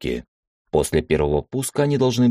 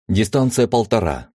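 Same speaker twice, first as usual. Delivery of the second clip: shouting; 2 semitones higher, 3 dB louder than usual. Acted. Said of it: "успел я крикнуть в эфир".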